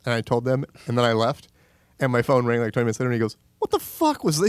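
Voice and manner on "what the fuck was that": pitched way up in a mock angry squawk; mock furious yell. Angry friend on the phone, high mock yell. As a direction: blast it like an outraged friend.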